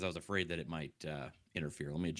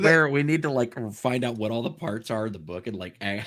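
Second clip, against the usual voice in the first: exasperated; 6 semitones higher, 12 dB louder than usual. Real, not acted. Frustrated about the reading.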